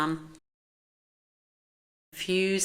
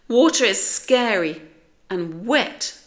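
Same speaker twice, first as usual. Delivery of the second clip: high, loud frightened protest; alarmed complaint, opening high; crying out; 4 semitones higher, 9 dB louder than usual. A narrator's reading. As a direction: wail it out with heavy emphasis. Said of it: "they cried together".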